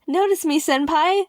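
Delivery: high, pleading fangirl call; mock fangirl plea. YouTubers teasing him: high mock plea. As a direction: beg to be noticed, mock-sweet. Quoting fans' catchphrase.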